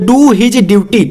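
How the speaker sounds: slow classroom dictation. Shown as a demonstration. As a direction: do his duty, drawn out word by word. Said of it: "dictating slowly".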